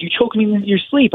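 high quote of an upset wife; retold accusation. Fighter quoting his wife after being choked, accusing and high. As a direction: lift the pitch to imitate her accusing.

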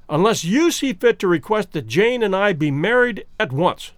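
each word set out slowly and distinctly; a measured, deliberate ultimatum. Acted. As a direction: lay down the demand word by word. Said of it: "slowly and distinctly".

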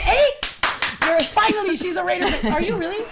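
loud, high, thrilled yell; excited shout. Real, not acted. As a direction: cheer out in delight. Hostess cheers Raider fan reveal.

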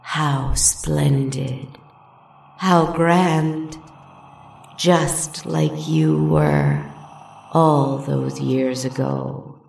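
slow, mocking hissed charm; manipulative charm. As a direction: drip false sweetness, then sneer. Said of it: "She hissed and laughed".

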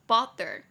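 bother with a strong BO and lighter ther; BO-ther, first beat stressed; stress on first syllable. Shown as a demonstration. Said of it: "重音节在第一音节".

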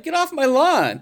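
high, exasperated retold command; mock grumpy order. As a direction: shoo them off in mock outrage.

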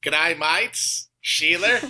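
hammed-up Aussie greeting; Australian accent. American guest greets the Australian hosts, in a mock Australian accent. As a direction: put on a comic Australian accent. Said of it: "I get to do the Australian accent".

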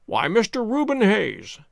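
slow, lightly mocking composure; cool. A narrator's reading. Detective answering the angry innkeeper, coolly. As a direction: address him with unhurried politeness. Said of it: "said Holmes coolly".

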